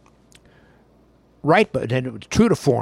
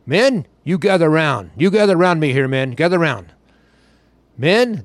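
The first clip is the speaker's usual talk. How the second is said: coach's pep talk; 2 semitones higher, 5 dB louder than usual. Retold or imitated. Coach Bo rallies his players at halftime, loud and commanding.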